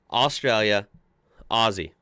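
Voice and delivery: Australia then Aussie with a z; careful Aussie. Shown as a demonstration. Practising for Australian viewers, careful Aussie. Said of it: "I think I got it down".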